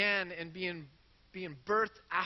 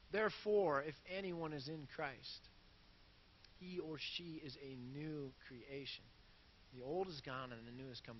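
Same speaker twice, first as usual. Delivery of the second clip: soft scripture reading; 4 semitones lower, 9 dB quieter than usual. Shown as a demonstration. Pastor rereads the verse gently to his listeners, soft and low. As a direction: reread the verse much softer and lower, intimate.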